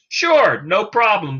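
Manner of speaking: high, bright-eyed sure, no problem; quick cheerful yes from the prospect; eager prospect. Acted. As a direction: jump in as the happily agreeing customer. Prospect eagerly agrees in role-play.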